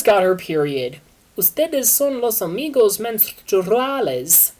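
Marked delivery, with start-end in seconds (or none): 1.4-4.5 mock scream. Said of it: "Al screamed".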